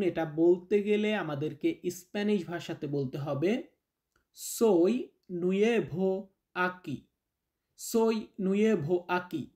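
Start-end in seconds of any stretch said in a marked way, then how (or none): 4.6-9.5 very slow, word by word; slow teaching model. Shown as a demonstration. Teacher introducing his name in Spanish, very slow. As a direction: drill it word by word for beginners. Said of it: "teacher models phrase".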